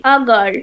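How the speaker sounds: put-on "a girl" with the article said "ah". Shown as a demonstration. Teacher giving an example of the article, said as ah. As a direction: say the "a" in "a girl" as an open ah, not ay. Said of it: "আবার কখনো আ উচ্চারণ করি".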